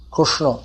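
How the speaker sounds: Krishna with rounded vowels, like Kushno; regional Krushno. Shown as a demonstration. Teacher listing regions' form, Krishna said as Krushno. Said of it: "they say Krishna".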